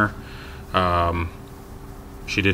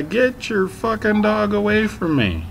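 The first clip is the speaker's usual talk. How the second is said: much higher and louder, slow furious command; angry retold shout; 4 dB louder than usual. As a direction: bark it at the careless owner. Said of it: "So I said to the guy".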